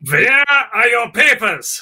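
loud, high, drawn-out officer demand; mock movie officer. Joking about wartime movie roles, hammed-up officer shout. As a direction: demand papers like a hammed-up film villain.

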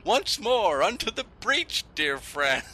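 high, loud stagey battle speech; rallying battle cry. Acted. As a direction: rouse the troops, hammed up. Rallying Shakespeare quote.

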